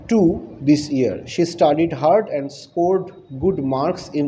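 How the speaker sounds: slow, careful classroom reading of the passage; slow reading aloud. Acted. Teacher slowly reading the passage aloud to her class. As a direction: read each sentence slowly for the students.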